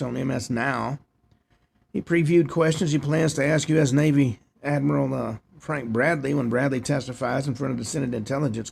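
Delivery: reading a news report aloud; steady read-off-the-page news delivery. Real, not acted. Host reads out the nativity scene report, news read.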